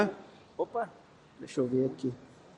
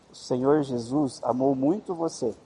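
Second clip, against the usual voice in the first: slow dictation; 3 semitones lower than usual. Shown as a demonstration. Speaks the verse down string phone.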